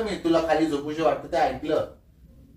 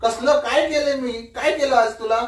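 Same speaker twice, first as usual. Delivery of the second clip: real heated demand, pitched up; raised voice; 5 semitones higher than usual. Real, not acted. Husband asking wife what he did wrong, voice raised. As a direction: raise your voice in protest. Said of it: "जरा आवाज कमी करून बोला".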